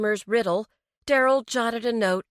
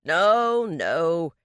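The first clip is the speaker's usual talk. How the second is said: placating; 5 dB louder than usual. Acted. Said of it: "in a placating tone".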